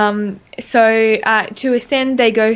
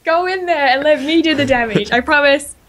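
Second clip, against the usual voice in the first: much higher, pleading "take it" growing higher each time; mock plea to NPC; 5 semitones higher than usual. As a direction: beg the NPC to soak the hits, playfully. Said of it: "I'm like".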